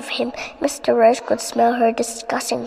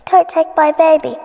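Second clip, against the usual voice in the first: higher, louder storybook plea; pleading; 4 semitones higher, 5 dB louder than usual. A narrator's reading. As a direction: beg her to leave the baby. Mother pleads with witch.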